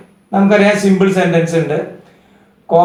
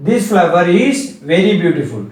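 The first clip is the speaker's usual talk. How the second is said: slow dictation; much slower than usual. Shown as a demonstration. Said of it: "എന്താ അർത്ഥം നോക്കുക?".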